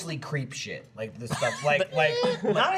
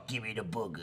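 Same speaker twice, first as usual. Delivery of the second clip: low, hushed put-on voice; creepy teasing voice; 6 semitones lower, 11 dB quieter than usual. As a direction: gross teasing creep, said softly. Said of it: "Oh, the voice is the worst part".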